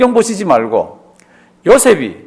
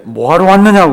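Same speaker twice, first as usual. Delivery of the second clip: louder stern questioning; stern demand; 6 dB louder than usual. Retold or imitated. Joseph interrogating his brothers, stern and loud. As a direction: demand it like a suspicious ruler.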